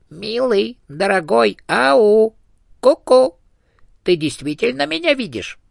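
a lonely little ghost thrilled to be seen; chatty hamster ghost. A narrator's reading. Dead hamster calling out to the elephant, high and excited.

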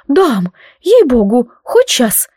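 loud, eager promise; delighted. Acted. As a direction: blurt it out gladly. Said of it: "обрадовалась наша гостья".

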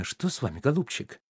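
soft, falsely tender cooing; cooing wife. Acted. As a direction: coo over him like a worried wife. Wife cooing over sick husband. (жена нежно воркует над больным мужем)

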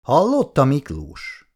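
a wife half-jokingly calling her husband to witness; half-joking question. Acted. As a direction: tease him lightly, half in jest. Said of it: "kérdezte félig tréfásan".

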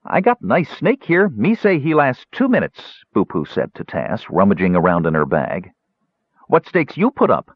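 high gully dwarf voice, keen on a bet. Acted. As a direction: push the wager eagerly.

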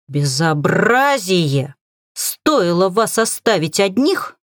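slow indignant scolding. Acted. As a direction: scold them, outraged and slow. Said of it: "возмущалась птица".

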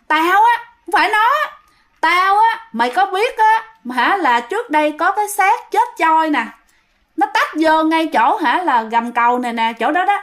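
high-pitched ghost woman, acted out; possessed female voice. Ghost woman tells the friend about the drowned body, high female voice. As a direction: voice a dead woman's spirit, pitched well up. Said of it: "mà khi mà bạn nói là giọng phụ nữ".

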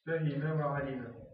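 very slow, every vowel of فهم وعلم spelled out; slow dictation. Shown as a demonstration. Teacher dictating an example sentence very slowly. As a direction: sound out فهم وعلم syllable by syllable. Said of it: "نضرب أمثلة".

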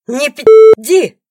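loud, slow, high coarse bark; rude snarl. A narrator's reading. Boorish rival cursing at the ex-wife, loud and slow. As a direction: spit out the curse. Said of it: "грубит хамка".

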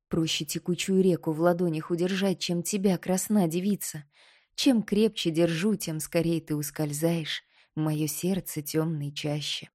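softening, slowing lover's murmur; tender Koschei. Acted. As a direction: murmur it close, tender and aching.

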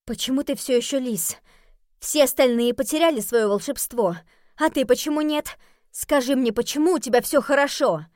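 accusing. Acted. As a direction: demand an answer. Chia confronts Jeremy.

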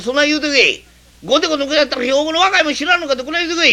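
high, swaggering bluster that builds; a tough from Hyogo throwing his weight around; young man from Hyogo threatening the neighbour through the clerk; blustering threat. Acted.

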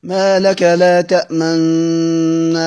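slow Quranic recitation of ما لك لا تأمن; measured recitation. Shown as a demonstration. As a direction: draw out ما لك لا تأمن in a measured chant. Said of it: "فأما قوله في سورة يوسف".

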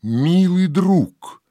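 high, drawn-out call; beckoning cry, pitched high and slow. A narrator's reading. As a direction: call out to a loved one from afar. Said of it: "кличут".

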